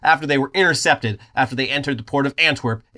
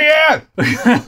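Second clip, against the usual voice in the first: redneck cheer; 9 semitones higher, 5 dB louder than usual. Pretend.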